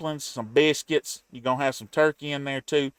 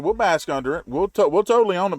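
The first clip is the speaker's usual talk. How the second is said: eager; 6 semitones higher, 6 dB louder, faster than usual. Real, not acted. Proudly owning the stereotype.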